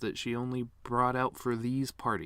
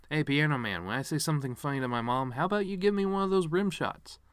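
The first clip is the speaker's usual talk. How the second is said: calling to the piano man; 5 semitones higher than usual. Real, not acted. Calling out to pianist.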